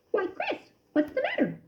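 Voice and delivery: a cousin alarmed at the choking; gently worried voice; Ced concerned. A narrator's reading.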